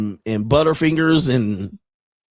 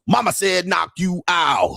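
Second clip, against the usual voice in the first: mock shout; 5 semitones higher, slower than usual. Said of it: "These niggas".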